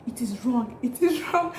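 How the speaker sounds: rising, mock insistent pastor; imitating pastor. Pastor forbidding both parents escorting, rising mock protest. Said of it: "The pastor kept on saying".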